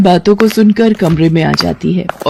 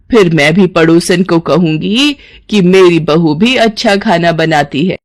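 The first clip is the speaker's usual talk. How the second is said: lightly voiced mother-in-law. Mother-in-law praises cooking.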